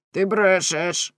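slow, loud you're lying; tearful angry accusation. Acted. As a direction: spit out the accusation through tears. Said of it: "плачучи і скригочучи зубами". (гнівно, крізь сльози)

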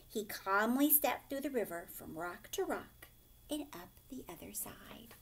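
lively storybook reading, dropping to a hush for suspense; reading to children. A narrator's reading. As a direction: read it like a picture book for a class. Teacher reads picture book aloud.

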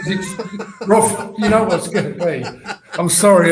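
high laughing voice through the words. Real, not acted. Guest laughing at the host's joke about losing, laughing. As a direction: laugh as you speak, giving in to the joke.

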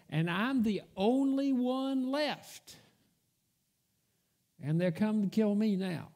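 mildly exasperated complaint, leaning on each grievance; fed-up Elijah. Retold or imitated. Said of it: "Elijah was fed up".

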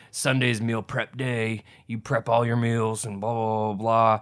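slightly put-on fitness guru voice, stretching the words; gym guru accent. Host mimics fitness gurus preaching meal prep, lightly put-on accent. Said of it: "That accent you just gave".

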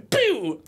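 high, loud mouth gunshot; gunshot pew. Retold or imitated. Retelling the Memento chase scene, mouth gunshot. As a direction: pop it like a shot.

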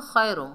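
खैरुम with thin, light "khai"; common mistake demo. Shown as a demonstration. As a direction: say खैरुम as plain "khay-rum". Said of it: "बाद लोग पढ़ते हैं".

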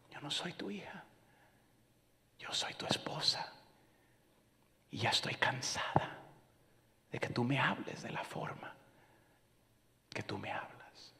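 "Yo no soy tu hija" whispered, barely voiced; a weary wife whispering her complaint to her husband; hurt whisper. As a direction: whisper her tired reproach. Wife confronting him one day.

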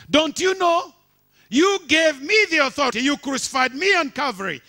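high, loud ringing answer; God's triumphant reply. Acted. Preacher voicing God answering Satan, triumphant and loud. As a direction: declare it like the victor. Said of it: "And God replied".

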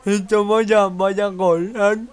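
excited shout. Real, not acted. Celebrating a goal.

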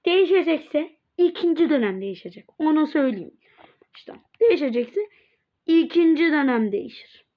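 1 firm loud. Real, not acted. Firm announcement to students.

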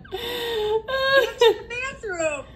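laughing. Real, not acted. Mom laughing.

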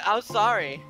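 squeaky voice. Acted. Yuri apologising on her knees, squeaky voice. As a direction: let the apology squeak out a bit. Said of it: "Her voice squeaks".

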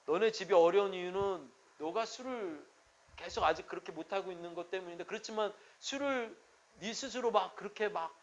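a hint of soft, fast counselling; quiet counselling voice. Pastor recalling his lenient advice to a drinker, quietly. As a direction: murmur the old advice to him gently. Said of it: "이렇게 했는데".

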